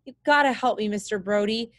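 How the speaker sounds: screamed. Acted. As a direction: plead desperately, pushing the first words. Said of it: "Jake screamed".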